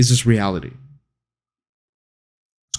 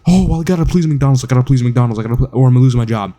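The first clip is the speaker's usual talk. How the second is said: mock anxious worker; 2 semitones higher, faster than usual. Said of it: "you're just here like".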